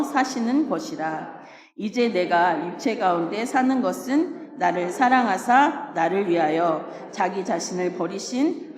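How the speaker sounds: measured congregational Bible reading; scripture recitation. Acted. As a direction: read the verse out evenly, phrase by phrase.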